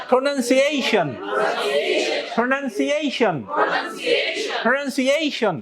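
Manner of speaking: প্রনাউন্সিয়েশন with the main stress on the EI of -eishon; primary stress on A. Shown as a demonstration. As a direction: lean on EI in প্রনাউন্সিয়েশন, then fall away. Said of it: "primary stress কার উপরে".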